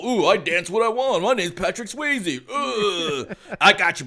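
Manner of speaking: hammed-up smooth dancer guy; lightly voiced suave heartthrob; mock cool rebel. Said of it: "he's a rebel".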